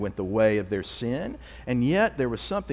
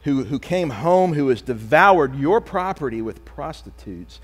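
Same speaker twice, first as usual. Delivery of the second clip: slow, louder, bitter accusing brother; resentful older brother; 6 dB louder, slower than usual. Retold or imitated. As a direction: spit out each charge against the brother. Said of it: "He says".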